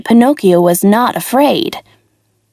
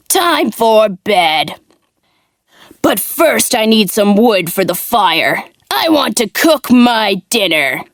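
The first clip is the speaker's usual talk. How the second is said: gruff puppet master. Acted. Puppet master threatens old puppet.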